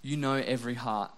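imagined morning prayer to God, hushed and humble; quiet prayer. Pretend. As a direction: pray it gently before work. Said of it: "I stopped and I said".

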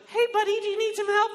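put-on high, loud little-kid voice. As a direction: pipe up like a helpful five-year-old. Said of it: "five-year-olds that are like".

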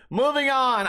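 amused, laughing it off. Real, not acted. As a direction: chuckle as you say it. Laughs after the rant.

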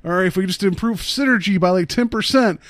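upbeat corporate team leader; rally the team like a manager; boss pep talk. Retold or imitated. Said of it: "Where you're like".

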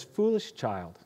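a mother donkey consoling her foal. Acted. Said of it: "and she says".

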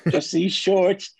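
put-on high, very slow, leering old man; creepy old man voice. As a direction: drag it out like a sleazy old neighbour. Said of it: "He does that voice too well".

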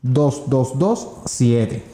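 slow, deliberate phone number; reading digits one by one. Shown as a demonstration. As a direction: stretch out each digit. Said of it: "Repito el número".

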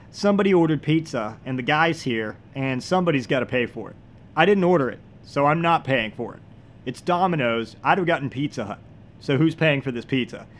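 mock badass speech. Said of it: "and he said".

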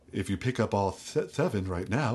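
lightly voiced horror actor; a hint of old monster-movie menace; Karloff. Shown as a demonstration. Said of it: "or Karloff".

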